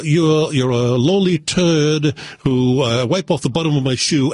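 put-on upper crust British accent. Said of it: "that upper crust British accent".

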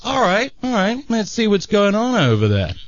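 high-pitched, put-on resolve; gang leader to himself. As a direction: talk yourself into investigating. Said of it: "the leader says to himself".

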